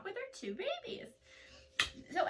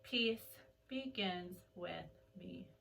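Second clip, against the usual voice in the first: softer, slow hushed chant; quieter mantra; 7 semitones lower, 10 dB quieter, much slower than usual. Shown as a demonstration. Teacher guiding the class to go quieter, hushed. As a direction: bring the voice right down.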